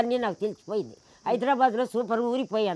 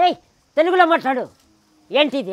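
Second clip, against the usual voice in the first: scolding; 3 semitones higher, 5 dB louder, faster than usual. Retold or imitated. Scolding son speaking English.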